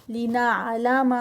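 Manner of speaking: لنعلم said short, the vowels not drawn out; no stretch. Shown as a demonstration. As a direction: keep لنعلم crisp with no madd. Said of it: "no stretch". (لنعلم بغیر مد کے)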